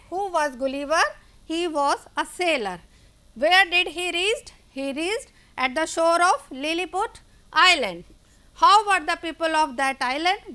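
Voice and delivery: slow, deliberate question-and-answer reading; slow classroom recap. Acted. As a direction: spell out each answer slowly for the class. Teacher reads recap questions slowly. (बच्चों के लिए धीमा दोहराव)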